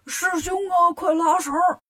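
high, urgent holler; cry for help. A narrator's reading. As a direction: call out desperately to big brother. Bajie calls for help in battle.

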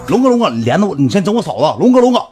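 high, loud urgent appeals; retold interceding at full volume; playing peacemaker. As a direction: act out a sidekick frantically restraining his boss. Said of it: "这胖子开始一个唱红脸".

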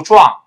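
壮 in place of John, zhuang with ng; loud Chinese "壮", back nasal ending; wrong John. Shown as a demonstration. Teacher showing another mistake, loud zhuang-like reading. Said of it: "也不要读壮啊".

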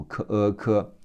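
"克呃克", two sounds blended into one; linking demo. Shown as a demonstration. Teacher shows linking in speech, "克呃克" sounded out then joined. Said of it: "克和呃会连起来读".

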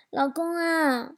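drawn-out, coaxing "老公啊"; wheedling wife fishing for a reaction; coaxing probe. Acted. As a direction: sweet-talk your husband to test him. Wife sweetly probing her husband.

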